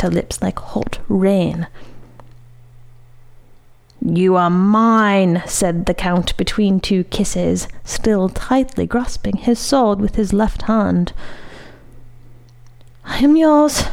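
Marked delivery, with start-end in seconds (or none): 4.0-5.4 possessive. Acted. Count claims her between kisses. 13.0-13.8 breathless, higher and louder; panting. Acted. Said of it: "panted the lady".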